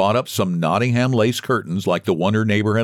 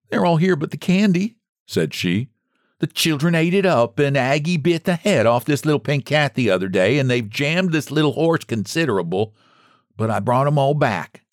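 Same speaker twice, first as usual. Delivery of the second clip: higher, lightly voiced old woman owning up; a hint of a plain-spoken old woman, pitched up; old Margaret confessing; 6 semitones higher than usual. Margaret returns the stolen toys to Mister White, lightly voiced.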